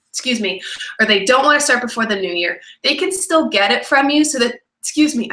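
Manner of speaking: burping while talking. Real, not acted. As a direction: talk between burps. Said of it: "I have the burps".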